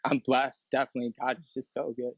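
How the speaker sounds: real emotion, halting as it comes; getting emotional. Real, not acted. Guest counts blessings after hard testimony, getting emotional. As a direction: gather yourself through welling emotion. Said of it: "getting emotional".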